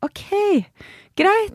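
a mock curt comeback; curt dismissal. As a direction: brush it off sharply. Her own curt retort.

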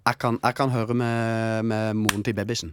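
Kristiansand dialect. Pretend.

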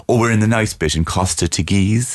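slow, lightly posh smug tourist; mock smug tourist. Mocking Lanzarote tourists, slow smug voice. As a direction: mimic a smug holidaymaker, slowly. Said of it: "Lanzarote people go about".

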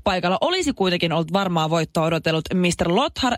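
brisk radio news read. Acted. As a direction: read it like a morning news item. Reads news item on air. (radiouutisten luenta)

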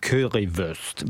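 slow, deep currywurst, said the German way with a rolled ending; German-style currywurst. Retold or imitated. Host echoing the guest's German currywurst, slowly. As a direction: draw out Currywurst like a native German. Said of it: "But you say it so well".

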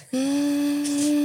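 long, high held hum; frustrated hum. Real, not acted. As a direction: hold one steady, high 'mmm' of frustration. Too angry to finish her sentence.

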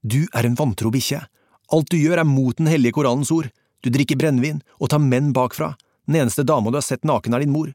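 Kåre insults the Afghan to provoke a fight, shouting; provoking insult. Acted. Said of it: "Kåre initierte en krangel".

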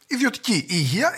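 high, dry sarcastic punch; sarcastic punchline. Acted. Comedian listing what is privatized, sarcastic sting. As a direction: land it as a deadpan jab.

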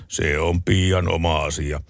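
a hint of an unbothered farmer, slow; slow, unbothered master of the house; calm husband. Husband reading the paper, answering calmly and slowly. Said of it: "isäntä rauhallisesti".

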